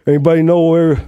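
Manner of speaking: Italian-American gangster voice; Italian-American accent. Shown as a demonstration. Gangster accent doing a movie line. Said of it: "the deep Italian one".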